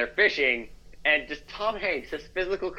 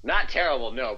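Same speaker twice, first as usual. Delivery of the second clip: normal talking voice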